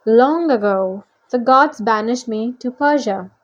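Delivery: relate the grievance with relish; French-accented monster monologue; villainous Manticore, grandly aggrieved. Acted. Manticore speech in story.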